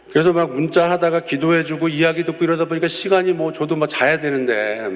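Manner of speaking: ordinary talk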